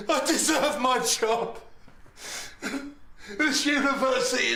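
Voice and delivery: broken laughter slipping into a sob; laughing through tears. Acted. Sacked old lecturer breaking down before the doctor, laughing and crying. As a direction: laugh bitterly, close to crying.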